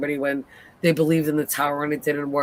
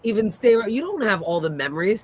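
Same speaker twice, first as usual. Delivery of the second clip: indignant, higher-pitched telling-off; retold mad rant; 5 semitones higher than usual. Viewer scolding Tabitha over her claimed memories, mad. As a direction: replay your outrage at her, pitch climbing. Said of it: "I was so mad".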